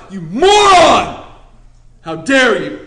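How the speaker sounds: slow, loud mocking yell of "You moron!"; hammed-up furious rebuke; mock angry shout. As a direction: bark it like an angry scold. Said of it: "we don't go up to him and be like".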